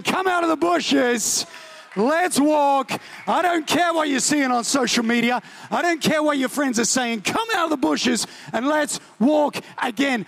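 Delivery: a hint of a gentle father calling; God's call. Preacher voicing God calling him out, lightly gentle.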